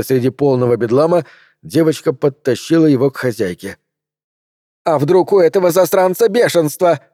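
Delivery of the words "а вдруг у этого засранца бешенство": mild, higher-pitched wail. A narrator's reading. Bitten woman heading to Mrs Alden, wailing. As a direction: keep wailing in indignant alarm, voice raised in pitch. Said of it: "продолжала голосить та".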